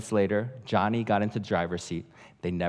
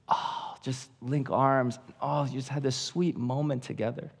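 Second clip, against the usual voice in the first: sweet women's voice; 3 semitones higher, 4 dB quieter than usual. Retold or imitated. Imagining two women sharing a tender moment, mock sweet. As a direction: coo it sweetly, lightly mocking. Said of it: "if it was two women".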